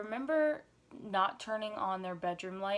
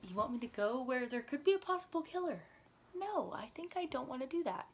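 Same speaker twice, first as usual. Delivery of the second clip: scared; 5 semitones higher than usual. Retold or imitated. Retold fear, refusing dad.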